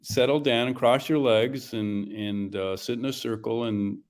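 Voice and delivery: put-on calling the kids to gather round, fast; playful storyteller rounding up children; mock teacher settling a class; story time. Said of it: "Is it story time?".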